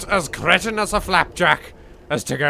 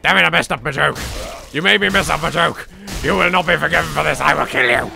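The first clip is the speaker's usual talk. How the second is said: hammed-up fake rage, a touch louder; mock temper; 4 semitones higher, 4 dB louder, faster than usual. Scolding the enemy for spoiling his joke, mock fury. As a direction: play at losing it over a ruined joke. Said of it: "I lost my temper".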